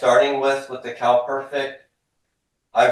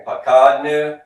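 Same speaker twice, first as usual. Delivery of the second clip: "Pakad nu" said clearly and a bit louder, stress on "Pakad"; model phrase for the class to repeat; 5 semitones higher, 6 dB louder, slower than usual. Shown as a demonstration. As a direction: say "Pakad nu" clearly for the students to echo. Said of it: "Everybody says to me".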